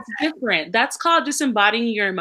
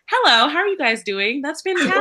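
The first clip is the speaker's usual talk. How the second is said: chirpy, slightly higher customer-service voice; a hint of the bright work persona; mock work voice; 4 semitones higher than usual. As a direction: put on the polite office cheer. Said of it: "When I get to work, it's".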